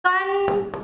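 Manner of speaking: কনক্লুশন broken into slow, separate syllables. Shown as a demonstration. Teacher saying it while writing, কনক্লুশন split into syllables. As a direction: say কনক্লুশন in pieces, with long pauses. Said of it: "কনক্লুশন লিখি".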